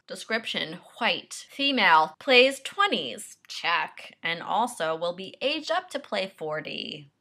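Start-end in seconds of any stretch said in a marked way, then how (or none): 0.1-3.4 indignant reading. Real, not acted. Reading casting notice, indignant.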